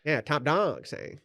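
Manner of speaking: lightly voiced old-time gangster; mock forties gangster. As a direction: play at a movie gangster's lingo.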